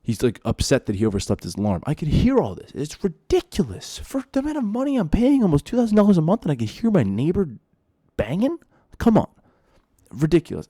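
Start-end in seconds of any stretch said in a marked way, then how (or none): 1.8-10.7 high, loud outraged disbelief; exasperated rant. Real, not acted. Tenant venting about rent and thin walls, exasperated. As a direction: let the outrage pour out.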